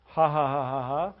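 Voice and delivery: spelt-out fake chuckle; mock laugh. Coach caps the guitar line, mock laugh. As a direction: put on a ha-ha laugh.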